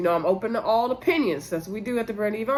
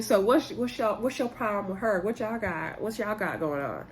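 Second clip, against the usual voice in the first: Stormy's voice; 6 dB quieter than usual. Retold or imitated. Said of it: "I'm just doing everybody's voice in the video".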